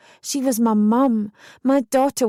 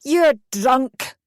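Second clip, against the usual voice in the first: yelled; 3 semitones higher than usual. A narrator's reading. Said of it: "Mum yelled".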